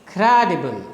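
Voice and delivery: "Credible" stressed on CRE, falling away after it; falling rhythm. Shown as a demonstration. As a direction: hit the start of "Credible", let the rest drop. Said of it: "From up you go down".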